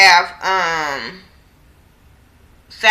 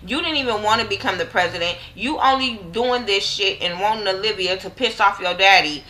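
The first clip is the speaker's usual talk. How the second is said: taunting commander; 3 semitones higher than usual. Retold or imitated. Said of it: "So the co-, commander, like".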